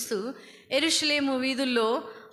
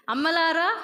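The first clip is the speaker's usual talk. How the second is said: "అమ్మలారా" said higher and louder, scoffing; mocking the misquote; 4 semitones higher, 4 dB louder than usual. Preacher ridicules a film line, higher and louder. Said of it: "సినిమాలో dialogue అది".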